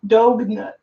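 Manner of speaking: dog nuts in a British accent; clipped British "Dog nuts". Shown as a demonstration. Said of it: "a British accent when you say dog nuts".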